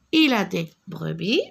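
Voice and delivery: il said with weight; stress on il. Shown as a demonstration. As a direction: mark the word il clearly. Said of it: "Non, je vais répéter".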